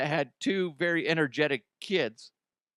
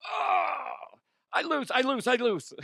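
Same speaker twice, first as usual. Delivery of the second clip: giving up laughing; 10 semitones higher, slower than usual. Real, not acted. Cracking up at own joke.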